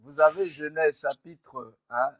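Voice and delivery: speaking far from the microphone; distant, off-mic voice. Real, not acted. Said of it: "On entend de loin".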